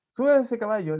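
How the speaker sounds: priest's loud command. Acted. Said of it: "le dijo el cura".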